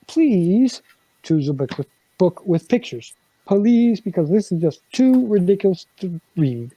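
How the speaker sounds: hammed-up begging read-aloud; mock pleading. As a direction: beg the kid in jest.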